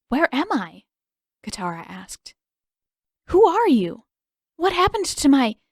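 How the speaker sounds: high, loud, rushed alarm; frightened girl pleading with her captors; alarmed questions. A narrator's reading. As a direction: wake up bound and demand answers. Katara waking, bound, questioning.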